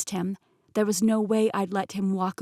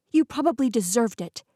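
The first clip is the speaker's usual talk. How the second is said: higher, louder snapped retort; spat back; 3 semitones higher, 5 dB louder than usual. Acted. Heroine snapping at Peter, spitting angry reply. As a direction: spit it back at him. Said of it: "I spat back".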